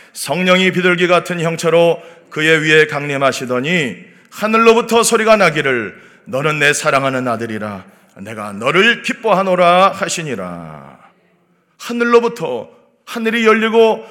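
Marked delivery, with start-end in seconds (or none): 0.1-10.9 low, measured recitation of a Bible verse; scripture reading. Real, not acted. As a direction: lead a congregation in reading the verse, low and even. Reads scripture with congregation.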